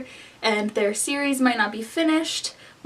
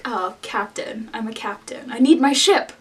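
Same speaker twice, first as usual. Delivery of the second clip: Captain Thorn; 3 semitones lower than usual. Retold or imitated. Snarky captain demanding a ship, lightly imitated swagger. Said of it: "he's always like".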